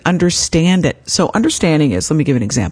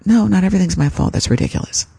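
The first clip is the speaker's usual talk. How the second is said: firm dismissal; 4 semitones higher, faster than usual. Shown as a demonstration. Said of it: "Flip the script".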